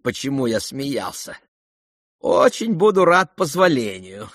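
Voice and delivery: put-on sick young man keeps his poise; weak dying youth. Ippolit's calm dying voice.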